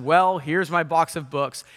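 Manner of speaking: slow, mildly grumpy retelling. Retold or imitated. Punk twenty-something grumbling at his unwanted Christmas present, mildly grumpy. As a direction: act out a touch of grumpiness, drawn out. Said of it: "in a very kind of grumpy voice".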